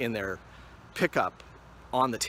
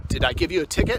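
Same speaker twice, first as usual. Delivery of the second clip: trooper quote; 5 semitones higher, 8 dB louder, faster than usual. Retold or imitated. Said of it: "he goes".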